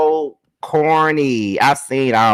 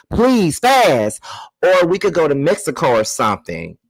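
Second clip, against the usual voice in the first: high-pitched pleading whine, hammed up; mock begging; 5 semitones higher than usual. Reading his text as a hammed-up begging ex. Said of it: "He's begging".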